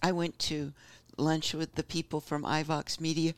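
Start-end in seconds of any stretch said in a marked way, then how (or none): 1.2-3.3 talking through hiccups; hiccuping between words. Real, not acted. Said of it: "Excuse me, I got the hiccups".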